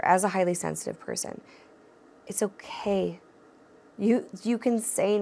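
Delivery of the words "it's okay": a gentle unvoiced whisper; soft whisper. Real, not acted. Host whispers reassurance to anxious people pleasers, gently. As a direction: breathe it softly, like a secret reassurance.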